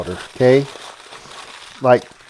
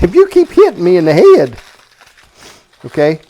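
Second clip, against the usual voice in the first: mock threat; 5 dB louder than usual.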